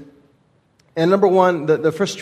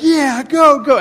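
imitating excited son; 10 semitones higher, 6 dB louder, slower than usual. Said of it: "and he's like".

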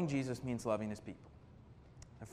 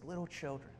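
softly spoken, tender address; quiet, mildly tender quote; 7 dB quieter than usual. Retold or imitated. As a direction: address them gently as their loving leader. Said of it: "He just says it so tenderly".

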